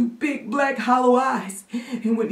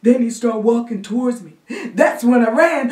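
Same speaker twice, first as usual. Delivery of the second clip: put-on high, gasping frightened child; trembling kid reliving a fright; shaking, scared boy; 8 semitones higher, 5 dB louder than usual. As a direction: catch your breath between phrases, building in panic. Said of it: "who was shaking like new jello".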